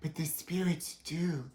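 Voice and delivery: seance medium. Acted. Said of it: "I'm Madame Crystal".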